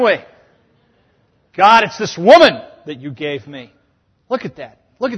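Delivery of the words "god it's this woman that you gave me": blaming whine. Retold or imitated. Adam blaming woman, mocking.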